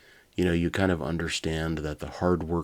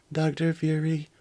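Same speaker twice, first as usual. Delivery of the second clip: high cutting-in robot voice; 11 semitones higher, 3 dB louder than usual. Acted. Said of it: "Soda interrupted".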